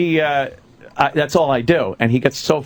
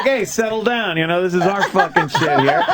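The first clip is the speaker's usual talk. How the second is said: calm Canadian; 3 semitones higher than usual. Retold or imitated. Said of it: "And he's reasonable".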